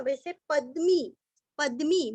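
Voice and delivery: पद्मी with long मी at the end; पद्मी, the मी held long; careful pronunciation. Shown as a demonstration. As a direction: say पद्मी like पद्म with a long ई added. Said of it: "जैसे हम पद्म बोलते हैं ना".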